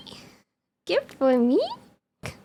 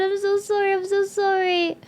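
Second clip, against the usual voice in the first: said higher; higher apology; 6 semitones higher than usual. Real, not acted. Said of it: "Was it loud?".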